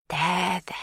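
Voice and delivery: gentle hush to calm her; there-there, like calming a child; soothing. A narrator's reading. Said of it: "she soothes".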